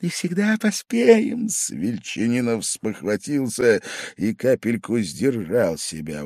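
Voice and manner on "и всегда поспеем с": put-on high, loud, tearful drunken plea; drunken crying out. A narrator's reading. Drunk guest begs his shouting host for mercy. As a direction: cry out, begging him to stop shouting. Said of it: "выкрикивал".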